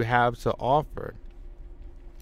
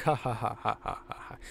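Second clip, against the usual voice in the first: spoken ha ha ha fading to breath; mock laugh; 2 semitones lower, 8 dB quieter, faster than usual. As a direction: fake mocking chuckle. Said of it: "Roush is, like, laughing".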